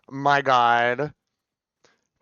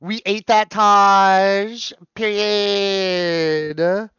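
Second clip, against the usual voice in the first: excited; 4 semitones higher, 4 dB louder, much slower than usual. Real, not acted. Praising Taylor.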